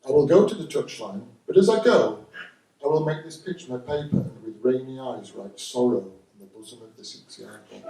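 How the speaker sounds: grand theatrical verse to the referee; mock Shakespearean. Comic answers the referee in hammed-up Shakespearean verse. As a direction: declaim like a tragic actor, lightly.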